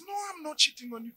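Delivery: quick denial. Acted. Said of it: "And he says".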